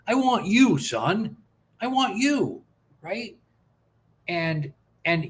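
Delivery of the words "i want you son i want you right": high-pitched, emphatic fatherly insistence; retold heartfelt reassurance, voice lifting high; heartfelt plea to son. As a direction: plead it to your son, pitch leaping up on YOU. Acted father reassuring his crying son.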